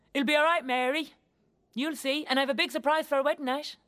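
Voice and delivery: quoting an excited bridegroom; eager reassurance. Retold or imitated. Voicing the eager fiancé's promise.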